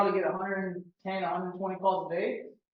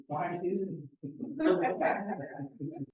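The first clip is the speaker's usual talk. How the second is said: friendly; 4 dB quieter than usual. Shown as a demonstration. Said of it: "Pretend you're calling your best friend".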